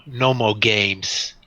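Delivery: low warning. Acted. Thug warns before drawing weapons.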